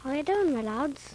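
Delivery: put-on Irish accent. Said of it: "speak like your dad? Like the Irish folks?".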